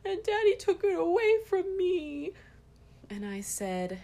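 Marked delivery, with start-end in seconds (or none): 0.0-2.3 put-on high, loud whiny little boy voice; upset toddler son. Toddler complaining to mom that daddy took his toy, high and whiny. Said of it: "And he said".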